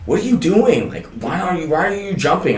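high, puzzled questioning; incredulous girls. Retold or imitated. Girls on the boat asking why he's jumping, high and incredulous. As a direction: girls calling up in disbelief, pitched high.

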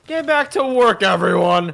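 mock boss order. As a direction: yell at the idle workers in jest. Ordering pals to work.

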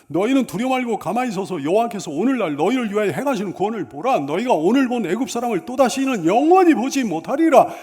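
loud, building scripture declamation; bold proclamation. Acted. Moses assures the complaining people God will fight, bold proclamation. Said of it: "백성들에게 큰 소리 쳐놨잖아요".

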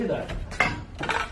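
hushed in awe; whispering. Real, not acted. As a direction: whisper it, amazed.

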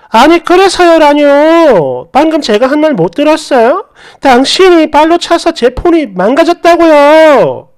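a reenacted argument, pushing back hard; indignant retort. Wife confronts the man.

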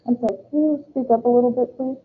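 talking through a face mask; words dulled behind a mask; muffled by a face mask. Real, not acted. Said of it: "sounds muffled".

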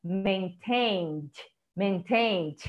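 "Maintained" said softly twice; repeated model word. Shown as a demonstration. Teacher drills "Maintained" twice. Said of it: "aqui é estressadinho".

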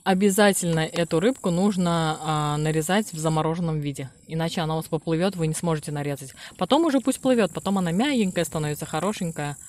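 speaking between small bites; talking while chewing. Real, not acted. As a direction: mouth partly full. Seen 0: Woman bites fish from chopsticks repeatedly while explaining.

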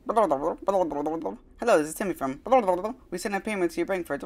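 quick, high little shopkeeper voice; chirpy phone clerk, rattling it off; shop clerk voice. Acted. Phone call voiced as Timmy.

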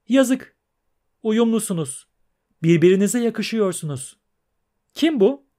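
high, loud, scornful singsong; shrill trilling mermaid. Acted. Mermaid scorning the absent prince and teasing the pair, high and shrill. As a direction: trill her disgust like a spoiled siren.

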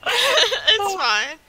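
high, loud and laughing; amused, giggly forgiveness; laughing reassurance. Real, not acted. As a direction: wave it off through a burst of laughter. Laughing along with the friend.

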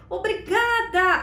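a bright, grateful thank you; smiling thank you. Shown as a demonstration. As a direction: smile right through the word. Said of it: "Sorria pra pessoa que te elogiou e agradeça".

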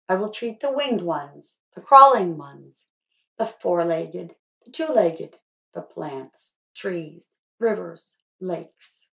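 measured, earnest reading of a pledge; pledge recitation. Acted. Author reciting the pledge from her book to the students, earnest and measured. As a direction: recite each line like a promise. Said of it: "I'd love to read it to you".

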